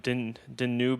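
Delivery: "Danube" drawn out as duh-NOO-bay; fumbled pronunciation. Shown as a demonstration. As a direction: slowly try "Danube" with an extra final bay. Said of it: "am I pronouncing it weird".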